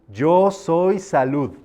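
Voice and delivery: "Yo soy salud" slow, stress on "yo"; stronger decree. Shown as a demonstration. Teacher showing a second, firmer decree, slow with stress on yo. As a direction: press hard on "yo" in "Yo soy salud". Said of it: "después puedes decir".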